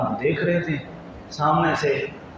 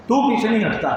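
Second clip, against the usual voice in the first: higher, exasperated complaint; exasperated outburst; 6 semitones higher, faster than usual. Acted. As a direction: vent the commander's frustration. Frustrated commander to the companion.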